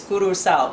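Curacao said as "koo-roo-sow"; island pronunciation. Shown as a demonstration. Vlogger who has been there demonstrates Curacao as "koo-roo-sow". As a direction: say Curacao with oo vowels and a tapped r. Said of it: "That's how they say it".

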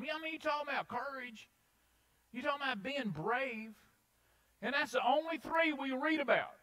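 high, loud, fired-up preaching. Real, not acted. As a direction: pour it out at full force. Preaches at full force.

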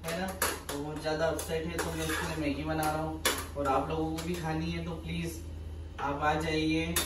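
softly, so as not to disturb anyone; hushed late-night voice. Real, not acted. Husband quietly telling viewers about noodles at night, hushed. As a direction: keep it down, half-whispered at night.

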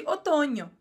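"otoño" with the ñ said like Portuguese nh; Spanish "otoño" with a nasal ñ; "otoño" ending in a clear ño. Shown as a demonstration. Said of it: "o N com o tiozinho significa essa pronúncia de N H".

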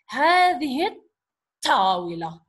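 "الطاولة" with a strong T replacing the L; sun letter pronounced. Shown as a demonstration. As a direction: stress the doubled T in "الطاولة", silent L. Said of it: "going to pronounce the sun letter".

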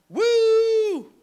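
high, loud whoop of delight; excited whoop. Real, not acted. Preacher thrilled by God's question to Sarah, high loud whoop. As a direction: shout it out like the room just caught fire.

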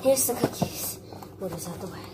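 breathless and panting; out of breath. Real, not acted. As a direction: talk while catching your breath. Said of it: "I'm out of breath".

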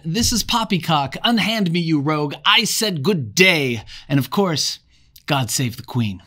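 high, loud hammed-up British indignation; mock British toff. Captured twins protest to Jack's tribe, mock-British toff. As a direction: play an outraged English gentleman, high and loud. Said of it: "They go on to add".

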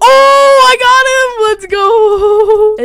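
high, loud victory shout; triumphant cheer. Real, not acted. Player celebrating a kill, triumphant shout. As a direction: whoop it in triumph.

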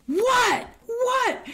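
high, loud challenging "What? What?"; confrontational what. Retold or imitated. Justine confronting the staring women, high and loud. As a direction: challenge them twice, high and sharp.

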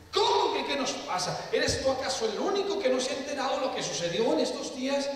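high-pitched, astonished questioning; acted incredulity. Disciple answering the stranger on the road, incredulous. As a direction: play a disciple taken aback by the question.

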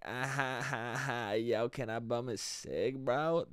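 low, very quiet, slow dopey chuckle into speech; hushed, drawn-out lowlife impersonation; townie voice. Acted. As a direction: imitate a townie who never left home. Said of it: "Drake sounds like a townie to me".

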